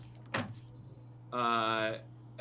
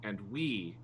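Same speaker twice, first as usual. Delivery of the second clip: lightly voiced crew member; 5 dB quieter than usual. Player voices Reader addressing captain.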